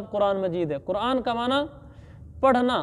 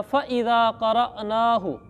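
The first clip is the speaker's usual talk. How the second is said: slow recited verse; Quran recitation; slower than usual. Acted. Teacher quoting the verse to students, slow chant. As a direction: draw the Arabic out in recitation.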